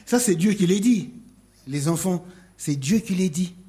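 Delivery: loud insistent proclamation; emphatic. Real, not acted. Preacher insisting to the children, loud and emphatic. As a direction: hammer it home.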